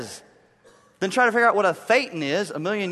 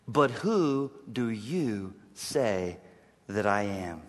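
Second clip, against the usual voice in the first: quiet, solemn question; 8 semitones lower, 6 dB quieter, much slower than usual. Acted. Quoting Jesus' question softly.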